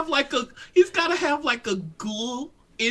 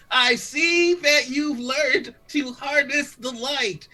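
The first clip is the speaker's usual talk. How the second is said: villain retake. Acted. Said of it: "another take on that one".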